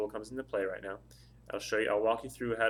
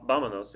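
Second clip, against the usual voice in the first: "vámonos" with a firm, louder first syllable; stress on first syllable; 5 dB louder than usual. Shown as a demonstration. Spanish teacher showing the word's stress, "vámonos" stressed on the first syllable. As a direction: hit the start of "vámonos", let the rest fall. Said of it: "The stress of the word is on the first syllable".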